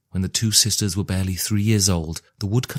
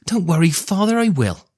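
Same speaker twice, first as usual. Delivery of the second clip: put-on much higher, bright girl calling back; cheerful young girl; 11 semitones higher, 4 dB louder than usual. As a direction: toss the answer back over her shoulder. Daughter calls back to her father.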